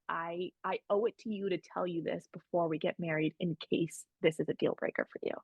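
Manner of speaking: hushed, earnest confession, last words near a whisper; soft sincere confession to her fiancé. Retold or imitated. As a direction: confide it gently before the wedding. I just said.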